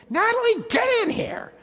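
loud high call across the room. Real, not acted. Pastor calling his daughter in, loud and high. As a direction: call her in from afar.

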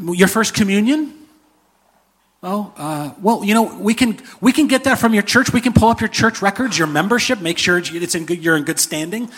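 a flustered gatekeeper angel filling in the form; angel clerk. Retold or imitated. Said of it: "And they say".

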